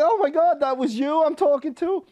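very high, incredulous retold mother; imitated disbelief. Mother realizing who she talked to, high mock astonishment. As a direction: play her amazement with the pitch way up.

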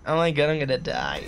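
laughing mock of his zesty cry. Player mimicking his own cry of doom, zesty voice. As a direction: imitate your own zesty line, amused. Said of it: "In the most zesty voice".

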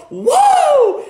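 high whooping cry; excited whoop. Retold or imitated. Preacher mocking his overconfident self with a whoop. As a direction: whoop like you could change the world.

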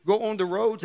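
put-on loose, half-hearted Australian accent; slightly lifted mock Australian voice; attempted Australian accent. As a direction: have a rough go at an Australian accent. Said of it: "that's my Australian".

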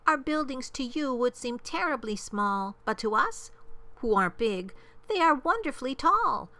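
high, proud little mayor; piping, thankful small-town official; tiny mayor calling. A narrator's reading. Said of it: "called the voice".

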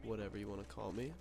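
stuffy nose, nasal and congested; nasal sick voice. Real, not acted. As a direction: talk through a blocked nose with a cold. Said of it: "don't mind the nasally voice".

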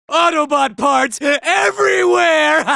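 laughing triumph over the wreckage; gloating laugh. Acted. Robot gloats to squad over the debris, laughing. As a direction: shout it out, then cackle with glee.

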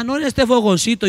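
high, humble voice; voicing a poor neighbour. Preacher acting a poor host showing her only pot, high and humble. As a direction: show your one little pot humbly.

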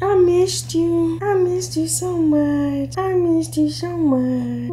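soft, slow loving murmur; tender affection. Real, not acted. Mother holding the baby she missed, softly tender.

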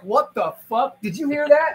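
loud, high, startled outburst; startled disbelief. Acted. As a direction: react bewildered to a voice from nowhere. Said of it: "he's gonna look straight up and go like".

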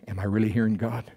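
anxious doubt. Retold or imitated. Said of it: "He had to be thinking like we think".

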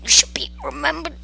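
mock-heroic vow of vengeance; theatrical vow. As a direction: swear it dramatically over a fallen friend. Mock-solemn vow over dead dinosaur.

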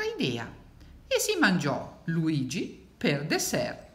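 slow read-aloud with suspense; deliberate picture-book storytelling; story narration. A narrator's reading. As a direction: draw out the ending for the children.

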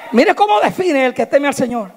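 ordinary talk, nothing marked

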